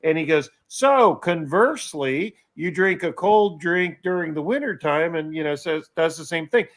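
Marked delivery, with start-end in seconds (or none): 0.7-5.1 Cliff imitation. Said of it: "That was a good Cliff imitation".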